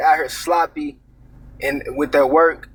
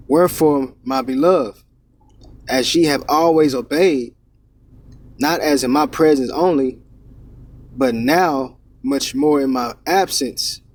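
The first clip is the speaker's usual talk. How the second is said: scripture reading. Acted. Preacher reads Philippians aloud.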